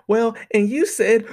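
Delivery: slow, dopey caveman voice, pushed up in pitch; exaggerated woman-doing-a-man impression; mock caveman dude voice. Mimicking a woman mocking how men talk, dumb caveman voice. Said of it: "make him sound like some retarded Fred Flintstone caveman".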